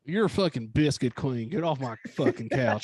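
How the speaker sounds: mock Southern-accent scolding; hammed-up TV host insult in a Southern accent; Dr. Phil. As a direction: throw them out in a put-on Southern accent. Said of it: "Doctor Phil kinda lose his shit in that accent".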